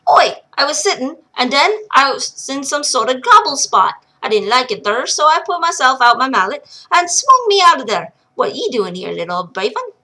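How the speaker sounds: lightly voiced rough brogue; gruff old dwarf. Old miner recounting his arrival, gruff brogue. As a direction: bluster like a stubborn old miner. Munchin's dialogue.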